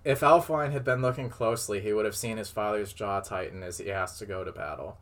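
measured read-aloud storytelling voice; story narration. A narrator's reading. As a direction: read it out like a tale. Reads fan fiction aloud.

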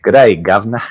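lightly hammed-up Cockney greeting; jokey put-on British accent; mock British accent. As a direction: play at being a British chap. Joins in the mock British bit.

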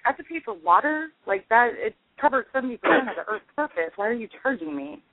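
high, disbelieving complaint; incredulous. Retold or imitated. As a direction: act baffled at paying for water. Outraged at first water bill.

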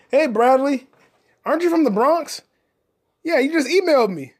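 high, loud call to a neighbor. Pretend. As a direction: holler at the man next door. Calls out to neighbor Bradley.

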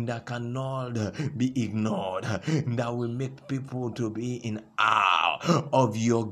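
prophetic declaration. Acted. Pastor declaring fruit over the congregation, rising force.

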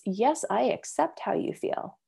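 slow, soft acceptance; a soft, slow line of validation; gentle and soft. Shown as a demonstration. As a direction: say it gently, giving them room. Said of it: "sort of gentle. It's soft".

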